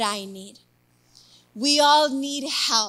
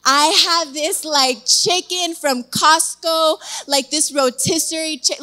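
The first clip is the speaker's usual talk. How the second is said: eager retold insistence, louder on the food; excited; 3 semitones higher, 6 dB louder than usual. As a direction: act out being pumped about dinner. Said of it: "I was excited".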